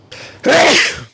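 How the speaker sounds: a short, high staged sneeze; a sudden demo sneeze, pitched high; fake sneeze. Shown as a demonstration. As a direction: act out a quick sneeze.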